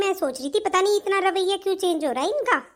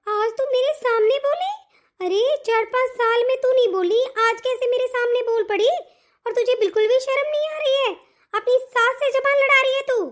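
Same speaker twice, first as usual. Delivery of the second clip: higher-pitched, affronted telling-off; scandalised scolding; 4 semitones higher than usual. Acted. Mother-in-law rebukes daughter-in-law for answering back, scandalised.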